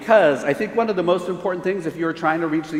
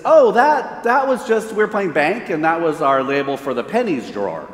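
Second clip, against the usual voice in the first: put-on innocent kid. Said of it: "And they said".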